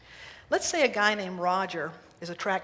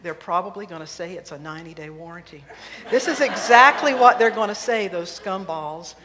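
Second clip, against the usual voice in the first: louder irritated rant; warranty grumble; 2 semitones lower, 8 dB louder than usual. Acted. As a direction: Roger ranting to himself about the dealership, louder. Roger grumbling about warranty.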